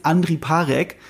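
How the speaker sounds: "Andri Parek" read as German spelling; deutsche Aussprache. Shown as a demonstration. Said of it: "wie's ein Deutscher aussprechen würde". ("Andri Parek" deutsch ausgesprochen, wie geschrieben)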